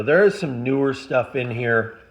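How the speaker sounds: throat tight with emotion; a lump in the throat; choking up. Real, not acted. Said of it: "I'm choking up a little bit".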